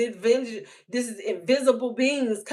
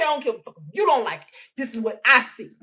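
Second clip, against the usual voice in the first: rising to an angry shout; high heated outburst, mostly shouted; defiant rant; 5 semitones higher, 3 dB louder than usual. Retold or imitated. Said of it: "I'm not gonna sit here and tell myself".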